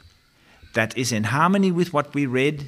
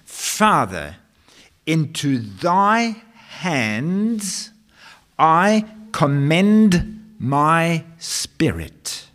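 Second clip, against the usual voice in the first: voicing Jesus; 6 semitones higher, 4 dB louder, much slower than usual. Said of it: "He said".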